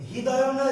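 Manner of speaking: হৃদয় with a plain h, said "hidayon"; the mistaken way, হৃদয় pushed out with h; wrong pronunciation. Shown as a demonstration. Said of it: "হৃদয়, হৃদয়". (ভুল উচ্চারণ, হৃদয় "হিদয়")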